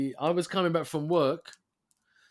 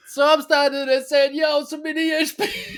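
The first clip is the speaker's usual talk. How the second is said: high, loud laughing; 12 semitones higher, 8 dB louder than usual. Real, not acted. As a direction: tell it while cracking up. Laughing while telling.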